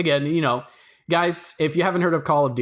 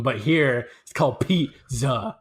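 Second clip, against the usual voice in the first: slow, drawn-out "pizza"; pointed correction; slower than usual. Real, not acted. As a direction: spell out "pizza" slowly, as if to a foreigner. Correcting slang with full word.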